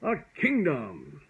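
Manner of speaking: put-on high, slow squeaky baby voice; tiny baby squeak. A narrator's reading. A tiny baby voice echoing the dragon, high squeak. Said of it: "squeaked the tiny little baby voice".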